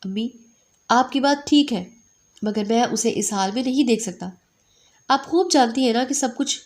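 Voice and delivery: a touch of a choked-up voice; son's understated choked plea to his mother. Acted. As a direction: speak as if holding back tears. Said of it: "بھرائی ہوئی آواز میں کہا".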